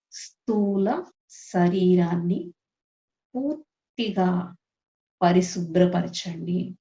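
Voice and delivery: slow, phrase-by-phrase invocation; guided prayer. Acted. Meditation leader praying for cleansing through five elements, prayerful. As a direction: leave space after each phrase for others to follow.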